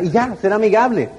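normal talking voice

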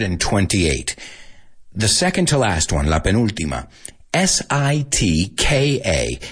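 slow, letter-by-letter dictation; spelling dictation. Acted. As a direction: spell out each letter slowly for the class. Spelling bee dictation of cities.

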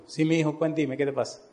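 soft, reassuring mother's reply; lightly voiced, quiet motherly tone; gentle mother. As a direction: softly invite the child to open up. Mother gently answers her son.

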